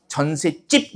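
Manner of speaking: 전셋집 said as jeon-set-jjip, tense jj; 전셋집 with a hard, tensed last syllable; demonstrated pronunciation. Shown as a demonstration. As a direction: show the tense jj sound in 전셋집. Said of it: "이렇게 발음이 되는".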